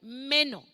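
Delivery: "meno" punched on the E, then falling; stress on the E. Shown as a demonstration. Preacher repeating the word for learners, stress on the E. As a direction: hit the E in "meno" firmly. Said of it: "con acento en la E".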